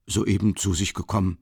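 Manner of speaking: a faint smile in the voice, lightly voiced clerk. Office clerk confirming politely, mild smile. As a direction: confirm it pleasantly, barely smiling. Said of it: "bestätigte wieder der Kontordiener mit einem Lächeln".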